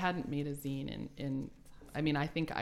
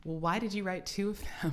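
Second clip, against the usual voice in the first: put-on higher little-boy question; lightly voiced small child; imitating her son; 5 semitones higher than usual. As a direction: play a puzzled toddler's logic. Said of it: "And he goes".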